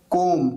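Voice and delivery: कोम ending on m, no b; silent B. Shown as a demonstration. Teacher showing silent letters, कोम with the B dropped. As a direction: close कोम on a plain m. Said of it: "यहां पर बी silent है".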